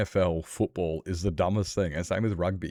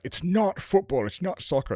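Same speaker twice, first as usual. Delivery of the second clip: mock quote of a friend; 10 semitones higher than usual. Friend's quote about football names.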